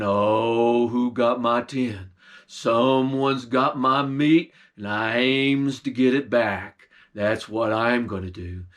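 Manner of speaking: menacing bear voice, only lightly put on; lightly voiced bear. Bear demanding his meat back, lightly voiced low.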